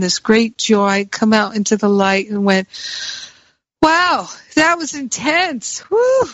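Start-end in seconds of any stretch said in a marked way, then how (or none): 3.8-6.2 high, breathless wow after a scary ride; thrilled exclamation. Retold or imitated. Stepping out of the horror house, high excited wow. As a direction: gasp it out, thrilled and relieved.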